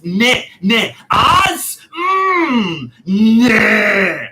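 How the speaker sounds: high, loud, wailing no; stubborn shouting refusal. Retold or imitated. Customer refusing the clerk, with a loud, high, whining no. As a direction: refuse her outright, almost crying it. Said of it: "In Bulgarian, it sounded like this".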